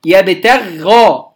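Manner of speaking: يبتغى read very slowly syllable by syllable; slow Quranic demo of يبتغى; slow drawn-out demo. Shown as a demonstration. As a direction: stretch out يبتغى to show it. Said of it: "إحنا بنتعامل مع الحرف المشدد".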